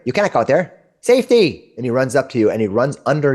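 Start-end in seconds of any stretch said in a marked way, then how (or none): 0.0-1.7 high, urgent warning squeak; alarmed little critter; frightened squirrel. Acted. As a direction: beg them to stay hidden. Squirrel warns of hawks.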